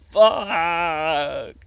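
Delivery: high, loud curse; yelled curse. A narrator's reading. Captain cursing at an empty gun, high and loud. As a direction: spit it out in shock. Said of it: "yelled the captain".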